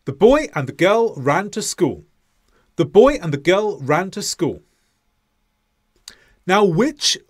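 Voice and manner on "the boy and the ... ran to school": put-on "boy", "girl", "ran", "school" stressed on the beat, "the" and "and" squashed between; stress timed. Shown as a demonstration. Teacher demonstrating English stress-timed rhythm, beats on "boy", "girl", "ran" and "school". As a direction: hit "boy", "girl", "ran" and "school", swallow the small words. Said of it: "Now the second way".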